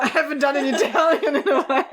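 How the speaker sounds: a first try at an Italian accent, tentative. Shown as a demonstration. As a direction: start the Italian accent, still rough. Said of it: "I can only do Italian".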